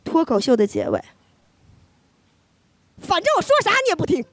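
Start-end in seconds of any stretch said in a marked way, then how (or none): 3.0-4.2 fast, high mock mom; a sighing nag, rattled off; mother giving up on her stubborn daughter; mom's line. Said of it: "用我妈说的一句话".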